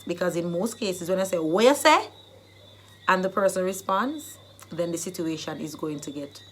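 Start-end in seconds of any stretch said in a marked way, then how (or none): 1.4-2.1 louder rising dare to repeat it; pointed comeback, rising at the end; confrontational challenge. Shown as a demonstration. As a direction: dare them to say it over. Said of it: "they want you to repeat so that the situation can get worse".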